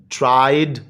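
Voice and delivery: ट्राइड closing on a clear "d"; ending pronounced d. Shown as a demonstration. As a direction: draw out ट्राइड and land on "d". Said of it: "डी पे ख़त्म होता है". (ट्राइड के आख़िर में साफ़ "ड")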